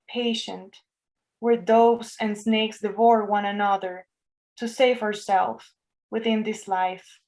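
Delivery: measured poem recital, pausing after each line; level, unhurried poet's reading with long pauses; poetry reading. Real, not acted. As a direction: read your poem aloud line by line, evenly and deliberately. Reads own poems aloud.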